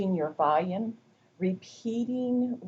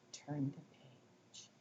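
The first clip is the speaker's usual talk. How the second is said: direct instruction; 3 semitones lower, 17 dB quieter, slower than usual. Shown as a demonstration. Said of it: "to give them a direct request".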